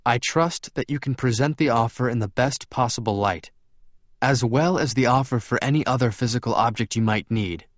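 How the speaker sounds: lightly voiced, courteous vampire; Edward's character voice. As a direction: lift the pitch a little, explain politely. Edward's dialogue in story.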